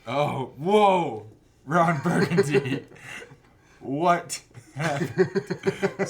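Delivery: loud, high, drawn-out surprise with laughter; startled whoa. Real, not acted. Reviewer suddenly spotting something, loud surprise. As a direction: caught off guard mid-review.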